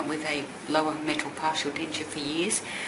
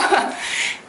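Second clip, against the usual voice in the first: teary laugh; 9 semitones higher, 3 dB louder than usual. Real, not acted. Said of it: "sorry, a bit teary".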